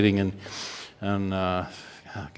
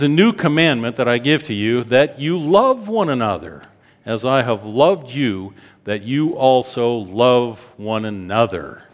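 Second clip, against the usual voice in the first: raised, slowing scripture reading; preaching scripture. Acted. Preacher proclaiming Jesus's words to the congregation, raised.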